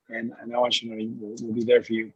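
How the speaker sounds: talking on a moving bus; jostled by a bumpy ride; on a bumpy road. Real, not acted. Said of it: "Sorry for the bumpy ride".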